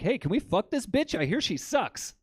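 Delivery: high-pitched imitated pleading; eager teenage friends. Teenage friends asking about his sister, high and eager. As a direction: ask in a high, eager mock voice.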